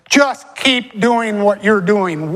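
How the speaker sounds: slow and deliberate, every word weighted; emphatic. Real, not acted. Pastor urging his congregation to persevere, slow and emphatic. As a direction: lean hard on keep doing what you're doing. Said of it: "I want to put some emphasis on that".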